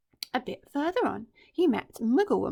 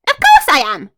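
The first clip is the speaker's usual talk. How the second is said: smug villain; 7 semitones higher, 19 dB louder than usual. Acted. Crocodile confirming.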